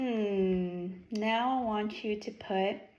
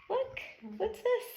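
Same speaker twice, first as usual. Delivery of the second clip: excited reveal; 11 semitones higher than usual. Acted. Surprise reveal for child.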